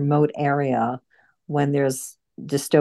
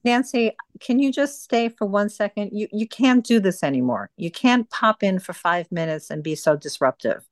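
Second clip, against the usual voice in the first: raised, tense telling-off; higher-pitched reprimand to the group; real scolding; 3 semitones higher than usual. Real, not acted. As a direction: firmly put a late member in her place. Host scolds a disruptive member.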